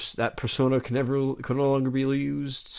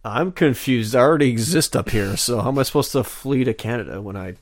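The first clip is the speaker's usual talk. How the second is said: louder, put-on baffled protest; acted confusion; 5 dB louder than usual. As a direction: protest loudly as a confused character, easing off at the end. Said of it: "the gang is very confused".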